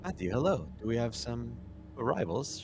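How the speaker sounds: bright, welcoming doctor; cheery doctor voice. Acted. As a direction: greet them like a friendly doctor.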